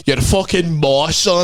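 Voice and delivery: put-on Scottish accent. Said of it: "he had that Scottish accent".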